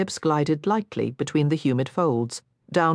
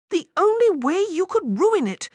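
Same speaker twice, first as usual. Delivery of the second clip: muffled, higher voice into skin; 14 semitones higher than usual. Acted. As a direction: talk as if face is pressed close. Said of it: "came his muffled voice".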